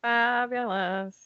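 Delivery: very drawn-out mimicking echo. Co-host parrots back her word, mimicking. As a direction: stretch it out, copying your co-host.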